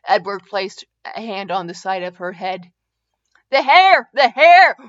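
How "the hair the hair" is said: high, loud yelp of protest; higher, louder exclamation; exclaimed alarm. A narrator's reading. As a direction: cry out in sudden alarm. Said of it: "Ray exclaimed".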